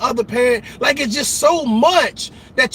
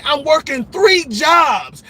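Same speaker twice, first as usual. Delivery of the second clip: mock brag; 4 semitones higher, slower than usual. Mocking a boastful single parent.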